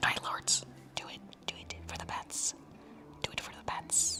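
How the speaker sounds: hushed, breathy whisper close to the mic. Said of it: "I'm whispering into the microphone".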